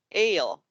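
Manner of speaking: "ale" said alone after a drawn-out s; onset-rime split. Shown as a demonstration. Teacher repeating the split word for kids, slow separated sounds. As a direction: hiss the s, wait, then say "ale". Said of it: "and do it again".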